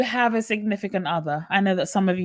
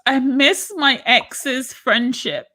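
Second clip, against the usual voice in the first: whiny partner voice; 3 semitones higher, much slower than usual. Pretend. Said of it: "And they say to you".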